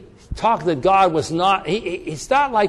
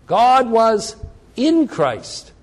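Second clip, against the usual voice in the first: "God was" punched higher and louder, then a pause before "in Christ"; raised, insistent "God was", then stressed "in"; emphatic restatement; 5 semitones higher, 3 dB louder, much slower than usual. Real, not acted. Repeats key words against walking off.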